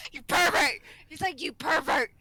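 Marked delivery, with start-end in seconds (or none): 0.1-0.8 loud mock accusation in an Asian accent; imitated Asian accent. Patient accuses nurse, imitated Asian accent. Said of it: "when he says it in that accent". 1.4-2.1 imitated Asian accent. Patient accuses nurse, imitated Asian accent. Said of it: "when he says it in that accent".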